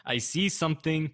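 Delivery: lightly imitated German accent. Host quoting Schmeling's famous line, in imitated German accent. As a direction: quote the boxer with a hint of German accent. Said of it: "famously said in his, um, German accent".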